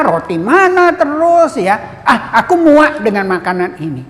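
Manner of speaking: understated angry grumble; mock angry complaint. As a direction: complain like fed-up travellers. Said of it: "Mereka marah sekali ya".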